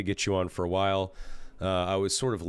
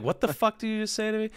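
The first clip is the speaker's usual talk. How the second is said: high, put-on outraged voice; mock outrage; 12 semitones higher than usual. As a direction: squeak out mock disbelief. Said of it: "I was like".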